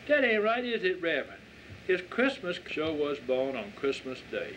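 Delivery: put-on eager child. Child Christine objects to Willie.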